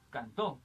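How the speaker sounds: Cantó said can-TÓ, rising; stress on last syllable. Shown as a demonstration. Teacher showing a final-vowel example, Cantó stressed on TÓ. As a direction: lean on the end of Cantó. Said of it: "Mayor fuerza de voz".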